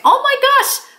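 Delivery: high-pitched, acted-out thrilled exclamation; excited surprise. Author seeing friend with her book, acted excited surprise. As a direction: replay a delighted, astonished reaction.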